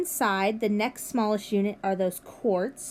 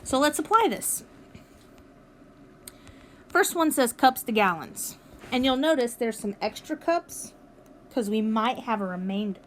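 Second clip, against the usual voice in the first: talking through hiccups; hiccuping between words. Real, not acted. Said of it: "Excuse me, I have the hiccups".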